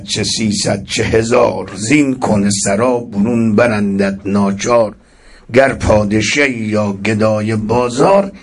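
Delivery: measured poetic recitation of Persian quatrains; poem recital. Acted.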